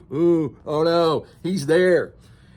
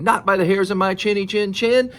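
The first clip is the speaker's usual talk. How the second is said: higher, lightly voiced defiant pig; defiant little pig; 5 semitones higher than usual. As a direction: refuse the wolf in a raised pig voice. Third pig refuses the wolf.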